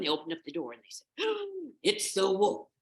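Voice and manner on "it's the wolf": gasp, then high loud cry; shocked children's exclamation; alarmed kids. Acted. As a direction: cry out in startled horror. Kids discover the wolf.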